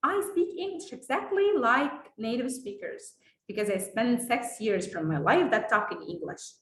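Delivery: slow, measured American-accented English. Shown as a demonstration. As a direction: show off a native-like American accent, unhurried. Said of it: "لما حد بيسمعني بتكلم". (لكنة أمريكية متأنية)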